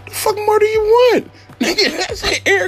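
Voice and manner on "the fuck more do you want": high, rising outrage at the passenger; indignant retort. Retold or imitated. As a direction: snap back at her, higher. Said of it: "I said".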